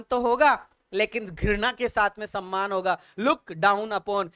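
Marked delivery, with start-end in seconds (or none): 3.2-4.3 slow word demo. Shown as a demonstration. Teacher to students, slowly spelling out the phrase. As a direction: Look down upon drawn out slowly word by word. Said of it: "क्या मतलब होता है look down upon का".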